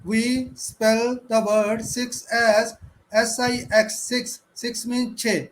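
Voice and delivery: slow, deliberate teacher drill; spelling drill. Shown as a demonstration. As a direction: model it slowly for the class. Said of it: "teacher models spelling drill".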